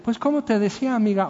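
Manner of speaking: sweetly resume the phone chat, unbothered; sweet mom voice. Retold or imitated. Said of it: "ella dice".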